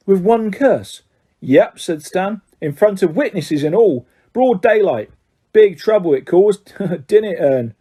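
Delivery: lightly voiced Cockney lad relishing the story; Stan's voice. Stan gossips about Black.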